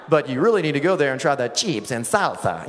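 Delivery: newscaster putting on Spanish for chips and salsa; over-pronounce "chips and salsa" with a Spanish accent; mock Spanish accent. Newscaster recommending chips and salsa, exaggerated Spanish accent. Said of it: "Why do you say it like that?".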